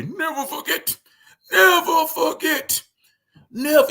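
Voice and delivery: very high, hammed-up mock Jewish accent; terrible Jewish accent. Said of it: "that's a terrible Jewish accent".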